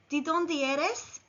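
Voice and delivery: slow "¿De dónde eres?" with rising tune on dónde; model Spanish phrase. Shown as a demonstration. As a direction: say "¿De dónde eres?" slowly for learners. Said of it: "Repeat after me".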